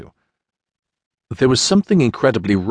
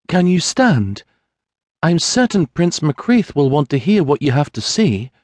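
higher, gentle noble voice; kind young lady; 7 semitones higher than usual. Acted. Sienna helps Mary stand, higher and gentle. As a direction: coax a frightened woman to her feet.

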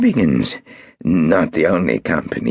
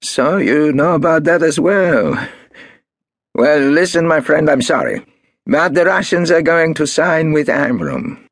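higher, louder hard threat; Marcus, threatening; 10 semitones higher, 3 dB louder than usual. A narrator's reading. Marcus threatening Golda over the shares, hard and loud. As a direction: turn nasty, raise your voice.

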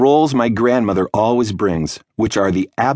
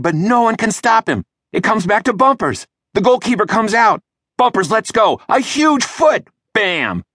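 breathless, much higher play-by-play of a dream goal; sports commentary; 13 semitones higher than usual. Pretend. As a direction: call the match like a thrilled TV announcer.

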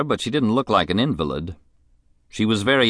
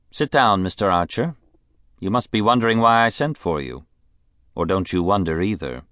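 a spoiled, bored rich lady; rich invalid wife. Acted. Mrs Sampson voice.

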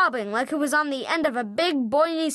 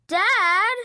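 higher, sharp interruption; exasperated kid; 6 semitones higher, 4 dB louder than usual. A narrator's reading. Son interrupting dad's proud rambling, exasperated. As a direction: cut dad off, annoyed.

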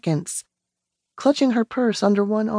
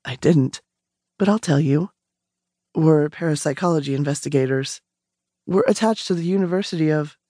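a lower man's voice, matter-of-fact; calm investigator; 4 semitones lower, faster than usual. Acted. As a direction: explain it plainly, as if it's routine.

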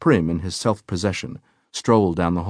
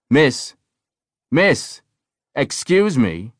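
higher, lilting call of reproach; reproachful sing-song; 7 semitones higher, 4 dB louder, much slower than usual. A narrator's reading. Nurse calling after a wandering patient, reproachful sing-song. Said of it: "a reproachful sing-song".

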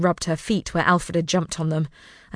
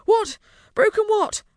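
surprised; 13 semitones higher, 3 dB louder than usual. A narrator's reading. Startled boy after waking.

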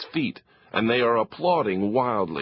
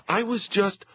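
put-on flustered boy; 10 semitones higher than usual. Leo cut off.

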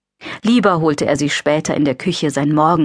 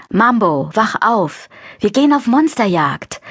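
calling out; 5 semitones higher than usual. A narrator's reading. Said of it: "weckte Wilma".

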